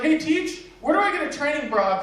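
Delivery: lightly voiced high kid asking teacher; eager schoolkid.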